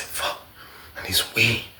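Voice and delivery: very soft, defeated undertone; muttered to self. Retold or imitated. Alone in the cell, muttering low to himself. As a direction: drop to a low, barely audible mutter.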